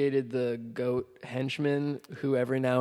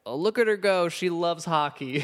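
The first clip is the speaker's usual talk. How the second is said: higher-pitched mock adoring remark; mock cooing; 4 semitones higher than usual. Podcaster mimics show fawning over orphan, mock cooing. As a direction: lightly gush as if watching a cute kid. Mocking show's sudden shift to cute orphan.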